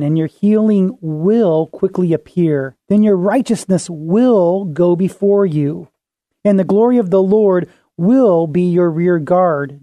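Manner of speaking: every "will" leaned on a little; stress on will. Shown as a demonstration. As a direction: read the passage pressing each "will". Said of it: "I'm gonna emphasize the word will".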